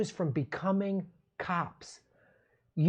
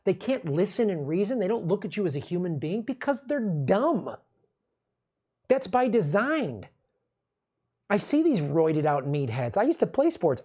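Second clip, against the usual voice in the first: ordinary talk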